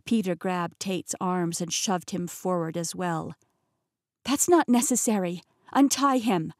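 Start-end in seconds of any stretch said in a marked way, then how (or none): 4.2-6.5 firm demand. Acted. Heroine demands Tate be untied.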